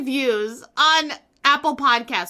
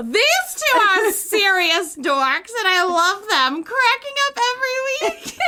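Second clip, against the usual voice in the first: reading own review aloud; 8 semitones higher than usual. Retold or imitated. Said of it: "here's my review".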